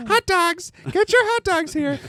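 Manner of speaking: high, bright vendor call; stadium vendor hawking. Retold or imitated. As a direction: hawk hot dogs at the ballpark. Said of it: "A child vendor at a big place".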